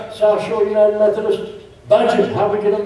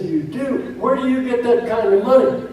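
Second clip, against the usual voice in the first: higher, astonished you do; mock astonishment; 5 semitones higher than usual. Stranger amazed at the pastor's paid worrier, higher pitch. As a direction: play the stunned stranger. Fella's astonished question in joke.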